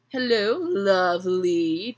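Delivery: slow drawn-out mock Ed greeting. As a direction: tease him by copying his accent. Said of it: "mocking Ed's voice".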